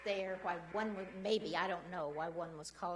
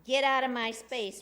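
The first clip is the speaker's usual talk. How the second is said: louder mock yell, retelling her; a half-hearted yell quoted at the council; retold yelling; 3 semitones higher, 8 dB louder than usual. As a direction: shout it as she did, in retelling. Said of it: "started yelling at him, screaming".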